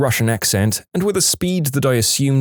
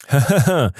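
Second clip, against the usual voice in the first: acted laugh; 2 semitones higher than usual. Marvin laughs at mistaken caller.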